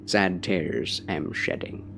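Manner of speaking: put-on Scotch-Irish accent, measured poetry recital; Scottish accent. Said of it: "slide into the accent".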